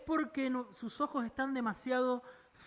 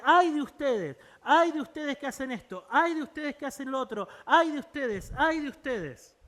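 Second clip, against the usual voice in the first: raised, loud denouncing cries; accusing woe; 4 semitones higher, 5 dB louder than usual. Retold or imitated. Isaiah accusing Israel, loud prophetic denunciation. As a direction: hurl each woe at the crowd.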